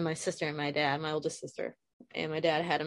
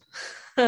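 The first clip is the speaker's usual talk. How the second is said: shaky breathless laugh; 6 semitones higher, 5 dB louder than usual. Real, not acted. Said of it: "trying to catch my breath".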